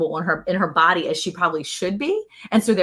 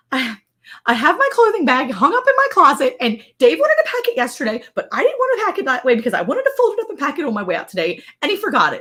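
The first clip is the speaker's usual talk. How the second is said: higher-pitched, upset retelling; mock tearful; 5 semitones higher, 3 dB louder than usual. Mother-in-law explaining the forgotten bag, mock tearful. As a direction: imitate a distraught phone confession. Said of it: "she's physically crying on the phone".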